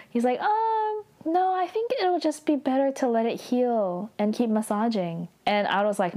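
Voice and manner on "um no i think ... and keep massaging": high, stretched um, then mildly uneasy backpedaling; retold nervousness. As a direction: imitate someone nervously talking his way out. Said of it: "He's, like, scared".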